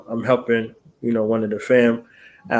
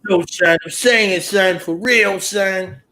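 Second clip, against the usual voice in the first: higher pushy fan voice; imitating fans; 5 semitones higher, slower than usual. Host mimics fans pestering him, pushy. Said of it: "They talk to you just like that".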